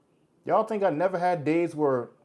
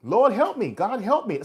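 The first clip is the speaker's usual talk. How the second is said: acted plea; 9 semitones higher, 4 dB louder than usual. Acts out a simple desperate prayer.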